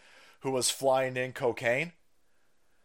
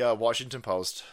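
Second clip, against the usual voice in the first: ordinary delivery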